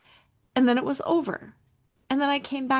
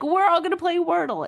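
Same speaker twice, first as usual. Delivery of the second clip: imitating husband's excitement; 7 semitones higher, 5 dB louder than usual. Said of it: "my husband ... he's like".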